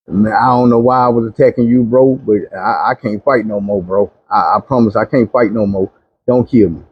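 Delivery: exhausted surrender, lightly acted; low, halting plea for mercy; begging. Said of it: "I looked up and I begged".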